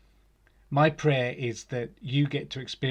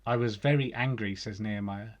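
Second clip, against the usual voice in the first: scripture reading. Acted. Reading Nehemiah aloud to the congregation, solemn and measured. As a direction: read the passage out as a solemn lesson.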